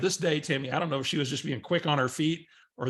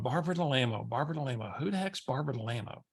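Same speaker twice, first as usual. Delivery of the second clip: muttering to himself; 6 dB quieter, faster than usual. Retold or imitated. Driver muttering at an unknown name on his dash. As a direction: quietly work out who's calling. Puzzling over unknown caller ID.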